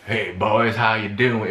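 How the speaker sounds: exaggerated country cop accent; thick Southern accent. Shown as a demonstration. Showing how the cop did not talk, exaggerated Southern accent. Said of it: "it wasn't like".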